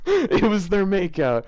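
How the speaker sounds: hammed-up deadpan quote, slow and loud; mock-incredulous repeat of the line; mocking reread. Shown as a demonstration. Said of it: "Just how plainly the sentence is".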